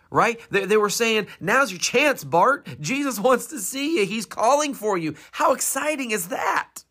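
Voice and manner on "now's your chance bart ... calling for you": high, eager urging; lightly acted eager crowd; encouraging. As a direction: cheer him on to stand.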